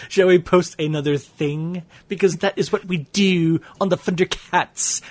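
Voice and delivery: grand mock-announcer delivery. Mocking repeat of question.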